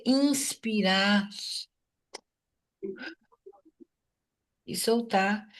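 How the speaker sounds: drawn-out words with a long breathing pause; breathing demonstration. Shown as a demonstration. Teacher shows students how to breathe in and release, slowly. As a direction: stretch the inhale, then let go softly.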